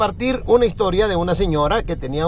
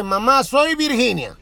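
sweet daughter on the phone; slower than usual. Acted. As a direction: ask mom politely, slowly, like a good girl. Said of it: "le dice".

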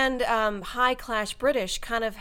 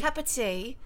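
softer mock British; British accent; 5 dB quieter than usual. Guest repeats after the Englishman, British accent. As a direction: copy it in careful fake British. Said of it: "when I do British accent".

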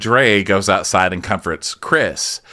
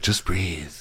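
soothing; 4 semitones lower, 8 dB quieter than usual. Retold or imitated. Acted calming of Chris.

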